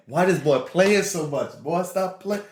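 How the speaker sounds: high-pitched mock exasperation; very loud. Schoolmate complaining across the cafeteria, high, mock-loud voice. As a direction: imitate a girl loudly calling out a boy. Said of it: "very loud in the middle of the cafeteria".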